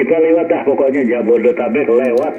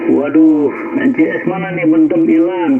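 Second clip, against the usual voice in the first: higher-pitched frustrated cry; mock complaining shout; 7 semitones higher than usual. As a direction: call it out like an annoyed listener. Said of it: "teriak-teriak gitu loh".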